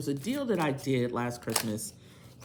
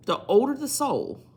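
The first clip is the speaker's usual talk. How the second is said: louder restart; 11 semitones higher, 8 dB louder than usual. Real, not acted. Rereading the card to viewers after a cough, louder and higher. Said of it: "I'm on these cough drops".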